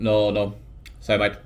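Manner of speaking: put-on half-hearted Irish accent; badly faked Irish doorman's refusal; terrible Irish accent. Dublin bouncer refuses entry, half-hearted Irish accent. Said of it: "that's a terrible Irish accent".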